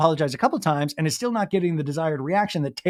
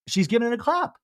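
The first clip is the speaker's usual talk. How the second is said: mock sassy remark; 7 semitones higher than usual. Mimicking Vanita.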